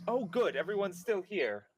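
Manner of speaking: Theo's voice. Acted. Theo robot voice comes online.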